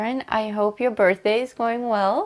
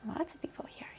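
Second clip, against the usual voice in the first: whispered echo; breathy whisper of the words; 7 semitones higher, 20 dB quieter, faster than usual. Real, not acted. Echoing co-host softly.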